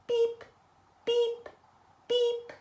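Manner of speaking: high little horn beeps; leading a beep-along; truck beeps. Shown as a demonstration. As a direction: toot for the kids to copy. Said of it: "We're gonna do it three times".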